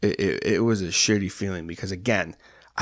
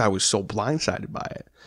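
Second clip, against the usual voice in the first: ordinary talk, nothing marked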